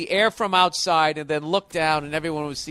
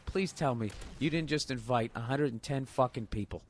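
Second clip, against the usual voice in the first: sinking dread; 3 semitones lower, 6 dB quieter than usual. Retold or imitated. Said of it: "my heart literally sank going".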